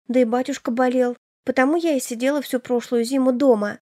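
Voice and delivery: a hint of a fretting younger sister. Elena's worried voice. (чуть выше, обеспокоенная юная сестра)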